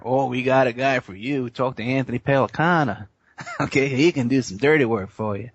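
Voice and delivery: lightly put-on politician's voice, near the speaker's own pitch; Clinton impersonation. Politician recommending a fixer to golf partner, light mock impersonation. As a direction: playfully imitate a politician offering a favor. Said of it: "That's my impersonation of Clinton".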